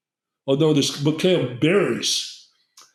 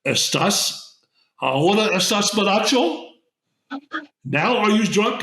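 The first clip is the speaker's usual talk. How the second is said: sly shaman's question; 6 semitones higher than usual. Retold or imitated. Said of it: "leans over to me and goes".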